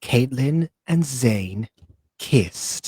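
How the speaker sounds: put-on sultry reading tone. Retelling how someone read fan fiction aloud: imitating a sultry fanfic reading voice. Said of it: "in her amazing, sultry fanfic voice".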